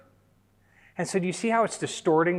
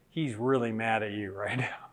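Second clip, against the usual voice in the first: hushed warning whisper; 4 semitones lower, 4 dB quieter than usual. Retold or imitated. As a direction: whisper it so the boy can't hear. Wife warns him about son.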